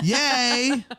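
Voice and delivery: high, drawn-out cheer. Real, not acted. Co-host cheers the listener's roast, cheering. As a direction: let out a long happy yay.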